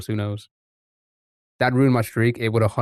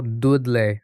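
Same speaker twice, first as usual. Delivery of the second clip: attempted Dudley accent, "Doodleh"; unsure go at a Black Country accent. Shown as a demonstration. Streamer guessing at local speech, Dudley accent. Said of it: "how people from Dudley sound".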